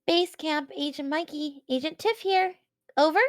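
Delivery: a high, playful walkie-talkie agent call; radio agent voice. Acted. Player calls a scared boy over the walkie-talkie, playful radio agent voice. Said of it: "And I go".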